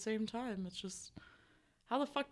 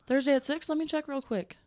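higher, louder receptionist voice; customer service voice; 5 semitones higher, 4 dB louder than usual. Pretend. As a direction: sell it like a cheerful receptionist. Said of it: "customer service voice".

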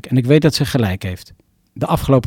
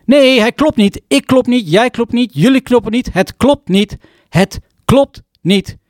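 acted outburst of despair, pitched high; sudden shouting; 9 semitones higher than usual. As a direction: scream it out of nowhere, then drag the last line. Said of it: "Uit het niets begin ik te schreeuwen".

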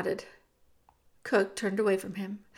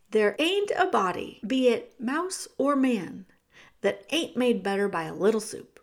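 Cook's rough voice. Acted. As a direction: push him to run, now. Cook's homely wisdom.

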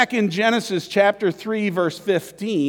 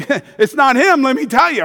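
loud, sure motherly verdict; knowing mom; 7 semitones higher, 6 dB louder than usual. Pretend. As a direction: say it like a mom who knows. Mary sure it's not Jesus.

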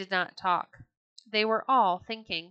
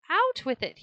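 higher, louder angry demand; a king snapping for the news; impatient cry; 8 semitones higher, 4 dB louder than usual. A narrator's reading. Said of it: "he cried".

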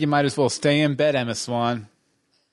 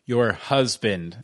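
slow, sarcastic "husband"; air quotes; 5 semitones lower, slower than usual. Acted. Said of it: "I'm doing air quotes".

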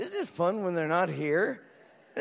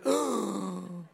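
mock gasp. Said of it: "Other people went".

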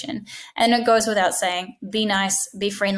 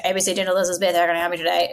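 unfriendly greeting; 2 semitones lower, much faster than usual. Shown as a demonstration. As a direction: rattle it off like the caller is a nuisance. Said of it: "it's not gonna be very nice for the caller".

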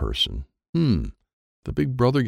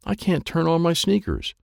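mild scream; 9 semitones higher than usual. A narrator's reading. Mary is screaming.

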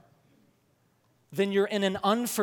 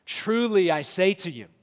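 official sounding. Shown as a demonstration. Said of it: "very proper and official sounding".

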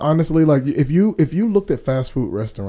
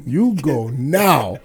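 mock Chinese accent; 4 dB quieter, slower than usual. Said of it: "supposed to do the accent".

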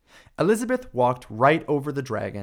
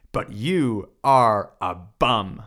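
blunt put-down; 2 semitones lower, 4 dB louder, slower than usual. Acted. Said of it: "Elizabeth said".

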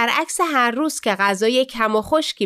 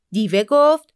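ordinary delivery

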